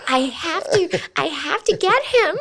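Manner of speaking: put-on high, eager girls' voice; a light high-pitched imitation of women swooning; lusty girls mimic. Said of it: "is going to be like".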